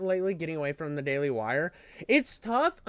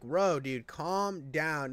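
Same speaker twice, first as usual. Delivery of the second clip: lower, softer retold placating; mock calming down; 3 semitones lower, 4 dB quieter, much slower than usual. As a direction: talk down a ranting customer, quietly. Retold soothing of the ranting customer.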